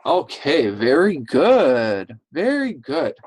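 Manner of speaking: encouraging teacher praise, stretched out; enthusiastic praise. Real, not acted. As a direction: praise the class with lifted pitch. Teacher praising pupils after their turn.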